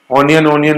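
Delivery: "ऑनियन" repeated with an O sound first; mispronunciation demo. Shown as a demonstration. Teacher rejecting a common onion pronunciation, O-sound mispronounced. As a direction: say "ऑनियन" twice as on-i-yan. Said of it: "ऑनियन नहीं".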